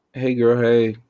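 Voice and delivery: the brain saying hey girl, playful put-on voice. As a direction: play your brain as a chirpy stranger. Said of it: "Something in my brain went".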